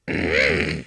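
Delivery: low gravelly throat-clear as Yoda; a low croaky Yoda throat-clear; Yoda agreeing. Acted. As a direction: clear your throat like an ancient little Jedi agreeing. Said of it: "That's my impression of Yoda agreeing with you".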